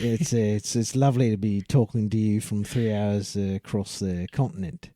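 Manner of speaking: lightly voiced Aussie guest; milder mock Australian; put-on Australian accent. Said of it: "You think anyone's buying this?".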